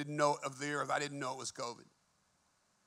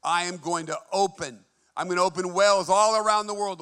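God's voice proclaiming; 3 semitones higher, 7 dB louder than usual. Retold or imitated. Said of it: "In fact, he said".

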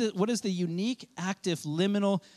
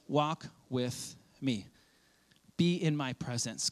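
slow, softer tender call; God's gentle invitation; 5 semitones lower, 3 dB quieter, slower than usual. Acted. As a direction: invite them gently, unhurried. Voicing God tenderly.

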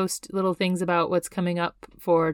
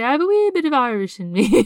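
attempted Irish lilt, pitched up; Irish accent; 6 semitones higher, 5 dB louder than usual. Shown as a demonstration. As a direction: try a not-very-Irish brogue, higher and louder. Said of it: "can you do an Irish accent".

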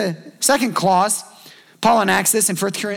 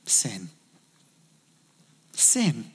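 grave low answer; 9 semitones lower, 8 dB quieter than usual. Acted. Jesus answering why divorce.

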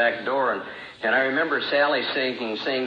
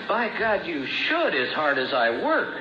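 indignant; 5 semitones higher than usual. Retold or imitated. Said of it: "And I would say".

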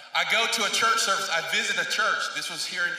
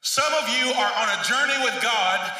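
imitated guest preacher; 3 semitones higher than usual. Pastor retelling a guest speaker's sermon to the church, emphatic preaching. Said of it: "he's preaching and he goes".

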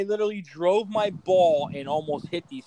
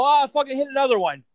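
high, louder mock whine; mocking friend; 8 semitones higher, 4 dB louder, faster than usual. Golfer mocking Mike's lost balls: high mock whine. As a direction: mimic his dismay in a higher voice. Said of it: "I go".

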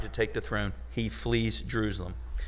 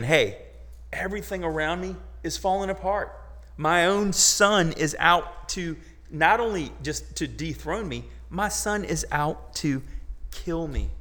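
desperate plea; 5 semitones higher than usual. Acted. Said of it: "He's crying out to the Lord".

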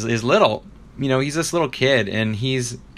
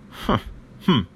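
dismissive grunts; 4 semitones higher than usual. Retold or imitated. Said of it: "he makes all these sounds".

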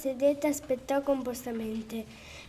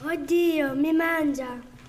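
grandma cries out in fright, louder; frightened cry; 2 semitones higher, 4 dB louder, slower than usual. Acted. The poor grandma screams as the wolf lunges, frightened. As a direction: gasp it out, scared. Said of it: "gridò la poveretta".

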